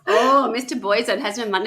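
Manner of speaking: lightly put-on Indian accent; mock Indian-sounding accent; accidental Indian accent. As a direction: attempt a French voice that slips into Indian. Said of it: "now I'm saying, like, Indian".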